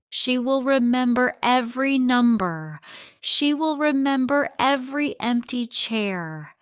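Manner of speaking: high, loud furious outburst; angry shout. A narrator's reading. Wife confronting husband about missing their daughter. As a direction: hurl every word at him.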